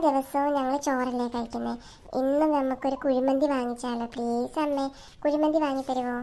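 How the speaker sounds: quietly coaxing a parent; soft pleading. Acted. Child asking mother for kuzhimanthi, soft pleading. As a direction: beg gently, like a hopeful child.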